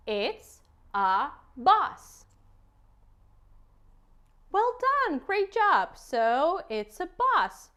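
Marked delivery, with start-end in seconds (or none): 0.1-2.2 very slow, clear; slow model word. Shown as a demonstration. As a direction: model it for a toddler to copy. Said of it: "So can you say it?".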